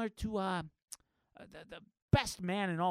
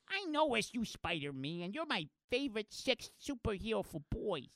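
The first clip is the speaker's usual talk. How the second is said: put-on high, small child's voice; little girl voice; 4 semitones higher, 4 dB quieter than usual. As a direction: talk like a shy little girl. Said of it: "This little girl standing next to him".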